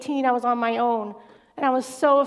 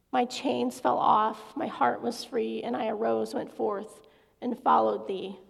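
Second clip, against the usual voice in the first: slow, reverent reading of a hymn verse; hymn recitation. Acted. Preacher recites her favorite hymn verse to the congregation, slow and reverent. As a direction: let each line of the hymn land slowly.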